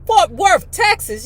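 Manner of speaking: high, loud disbelieving question; incredulous query; astonished echo. A narrator's reading.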